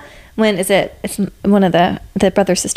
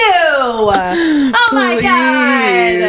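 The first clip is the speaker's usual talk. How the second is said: slow, high giggling wail; laughing squeal; 4 semitones higher, much slower than usual. Real, not acted. Overwhelmed by the scene.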